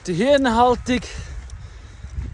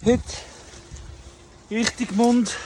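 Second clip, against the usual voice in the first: walking uphill, a bit breathless; while running; 2 semitones higher than usual. Real, not acted. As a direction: talk while hiking up. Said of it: "Ich laufe grad".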